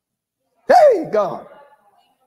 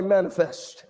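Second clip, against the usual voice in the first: low prompt; 8 semitones lower, 6 dB quieter than usual. Shown as a demonstration. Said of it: "Tell somebody".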